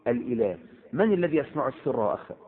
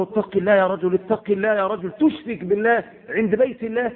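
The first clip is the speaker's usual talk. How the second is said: stern rebuke; 6 semitones higher than usual. Retold or imitated. Preacher retelling how he rebuked the man, raised voice. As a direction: rebuke him firmly, voice rising. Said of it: "قلت له".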